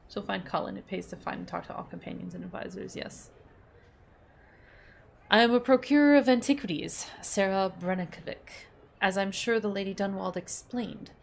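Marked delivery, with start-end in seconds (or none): 5.3-11.1 a hint of a smooth, polite host; lightly voiced gentleman. Voices Wagner in the codex.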